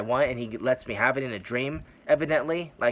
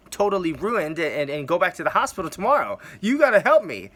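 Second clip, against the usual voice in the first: panicked pleading; 3 semitones higher than usual. Retold or imitated.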